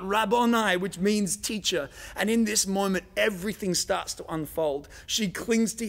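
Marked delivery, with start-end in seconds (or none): 0.0-0.8 calling out. A narrator's reading. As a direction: lift the name out high and loud, reaching toward him. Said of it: "she calls out".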